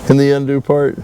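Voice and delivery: a short laugh leading into the words. Real, not acted. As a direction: start with a real chuckle, then carry on. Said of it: "I don't know why I'm laughing".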